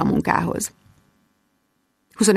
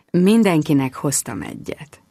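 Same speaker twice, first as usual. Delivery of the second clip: sexy; 4 semitones lower than usual. Acted. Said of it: "szólt szexin".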